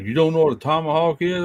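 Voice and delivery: mock incredulous son.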